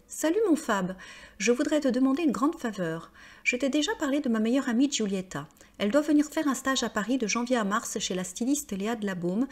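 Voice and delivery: reading an email. Shown as a demonstration.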